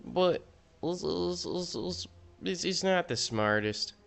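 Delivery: hammed-up Southern accent, lightly voiced. Gamer ranks cards in a put-on Southern accent. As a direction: play a smug Southern know-it-all. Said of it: "I'm doing the southern accent".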